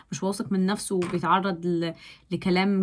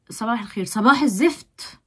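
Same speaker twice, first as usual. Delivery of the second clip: grumpy morning greeting; 2 semitones higher, 3 dB louder than usual. Retold or imitated. Hater greeting himself in the mirror, mock disgusted and irritable. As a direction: play a disgusted hater waking up in a foul mood. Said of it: "متعصب، متنرفز".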